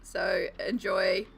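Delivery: talking like a robot; robot voice, mock announcement. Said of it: "I start talking like a robot".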